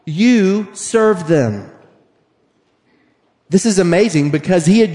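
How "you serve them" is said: high insistent no no no; animated Jesus. Retold or imitated. Jesus urging disciples to serve, high insistent. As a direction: urge them on excitedly. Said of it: "Jesus is like".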